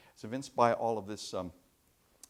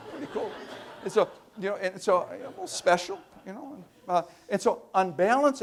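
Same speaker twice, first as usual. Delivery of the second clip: imitating an abductee; 4 semitones higher than usual. Voicing an abductee's own account.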